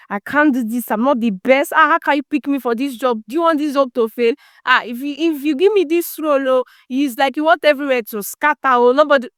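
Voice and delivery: mock flustered protest, pitch lifting; rising, mildly hammed-up fretting; panicky self-doubt. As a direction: act out an overwhelmed self-doubter.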